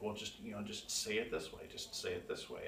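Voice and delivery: soft, fading counselor voice, dropping to a whisper at the end; mock soothing therapist repeating the advice; mock gentle advice. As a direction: imitate a soothing counselor coaching you. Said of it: "say things in a nice way".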